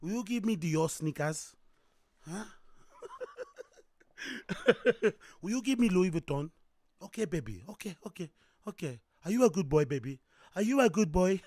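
woman bargaining with her lover; demanding girlfriend. Acted. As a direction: wheedle him for luxury gifts. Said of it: "I'm telling him".

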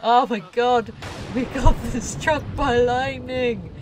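loud, high, laughing disbelief; excited shriek. Real, not acted. Player yelling as her Sim gets struck by lightning, shrieking and laughing. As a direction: burst out in laughing shock.

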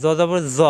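জ said thick, with a rounded vowel; thickened, buzzing জ; heavy consonant. Shown as a demonstration. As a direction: make each জ full and heavy. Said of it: "মোটা হবে".

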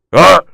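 높고 크게 터지는 "아!"; 짜증이 터진 외마디 소리; 답답한 외마디 고함. Real, not acted. Exasperated outburst over pronunciation complaints. (버럭 내지르는 외침)

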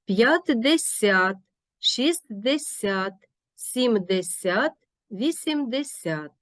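slow п'ятдесят, шістдесят, сімдесят, вісімдесят stressed on СЯТ; last-syllable stress. Shown as a demonstration. Teacher modelling numerals in десят, slow final stress. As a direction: draw out each numeral, landing on СЯТ. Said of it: "наголос припадає на останній склад".

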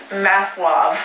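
Maslov with an open California "ah" in the second syllable; Maslov, California-style, as "MASS-lahv"; California accent. Shown as a demonstration. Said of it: "in a really California accent".

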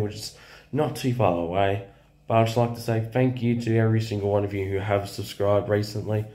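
hoarse, worn-out voice after cheering. Real, not acted. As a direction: talk with a lost, hoarse voice. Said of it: "I've lost my voice".

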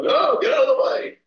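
hammed-up get-away call; mock alarm. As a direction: act out someone fleeing in a hurry. Others fleeing the irritable person.

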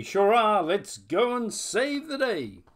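high squeaking voice; squeaky bat voice. Acted. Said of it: "squeaked the Bat".

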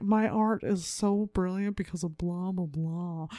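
pretentious artist voice; lightly voiced art snob; snobby art voice. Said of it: "that's my snobby art voice".

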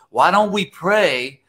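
slow, words breaking into laughter; can't get the line out for laughing; laughing through the punchline. Retold or imitated. Pastor telling the wife the answer, laughing. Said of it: "I want you to get this laugh".

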